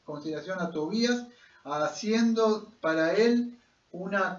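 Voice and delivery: scripture read aloud to a congregation; lectura bíblica en voz alta. A narrator's reading. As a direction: read out the passage in steady, rising phrases. (lectura proclamada de la Biblia)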